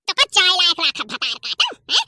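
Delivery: sobbing while cursing; crying curse. Acted. Beaten woman curses her neighbour while crying. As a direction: curse her through tears.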